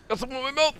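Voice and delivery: imitating character. Echoing the game character's line.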